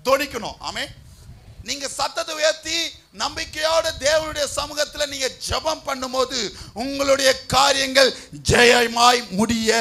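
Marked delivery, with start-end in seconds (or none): 3.2-9.7 loud, emphatic sermon promise; preaching at full force. Real, not acted. Preacher promising answered prayer to the congregation, full-force preaching.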